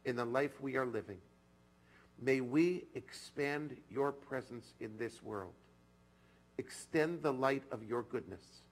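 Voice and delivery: slow, solemn reading of a prayer. Acted. Rabbi reading a prayer to the congregation, slow and solemn. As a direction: let each phrase of the prayer settle, slowly. Reads a prayer text aloud.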